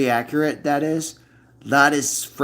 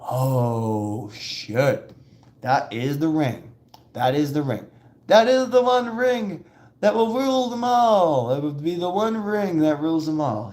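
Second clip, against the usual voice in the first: excited fan; 4 semitones higher than usual. Retold or imitated. Fan spotting the ring, building to an epic cry. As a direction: build from awe to a big epic proclamation. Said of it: "It's like".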